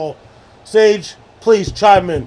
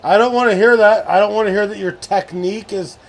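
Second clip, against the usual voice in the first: mock coach rant; 3 semitones higher, 4 dB louder than usual. Pep-talk rant at teammate.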